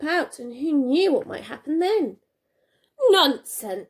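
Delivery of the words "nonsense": firmly. Acted. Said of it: "said the old lady firmly".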